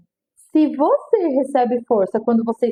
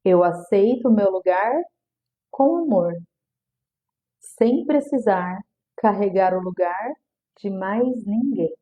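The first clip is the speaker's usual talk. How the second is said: slow, deliberate affirmation, each phrase spaced; calm repeated affirmation, drawn out; 3 semitones lower, slower than usual. Shown as a demonstration. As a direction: say it slowly like a mantra. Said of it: "Vou repetir".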